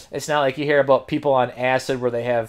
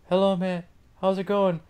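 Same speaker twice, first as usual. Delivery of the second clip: tripping friend; 12 semitones higher, 6 dB louder than usual. Retold or imitated. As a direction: voice climbing high and loud, fading in and out. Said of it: "he started talking like this".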